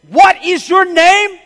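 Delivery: huge, high, slow roar of fury; raging shout. A narrator's reading. Emperor roaring at the cowardly soldier, enraged shout. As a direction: bellow it in full rage. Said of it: "In a rage".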